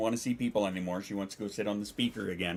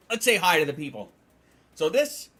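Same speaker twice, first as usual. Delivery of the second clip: higher sing-song for the cat; pet voice; 7 semitones higher, 5 dB louder than usual. Real, not acted. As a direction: keep cooing at the kitty. Talking to cat.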